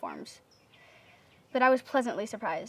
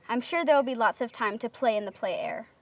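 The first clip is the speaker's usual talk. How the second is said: flat, mumbled line reading; monotone mumble. Retold or imitated. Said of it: "And in a monotone voice, I mumbled".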